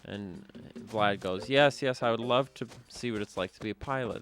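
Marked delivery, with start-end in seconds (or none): 1.5-4.2 lightly acted burst of eagerness; eager excited kid. Vlad accepts his dad's offer of the pilot's seat, excited. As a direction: voice the boy's thrill, louder and higher at the start.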